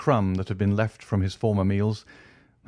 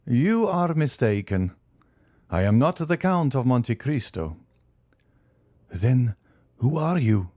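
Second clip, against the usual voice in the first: grave wronged man revealing himself; stern avenging count; 3 semitones higher than usual. Acted.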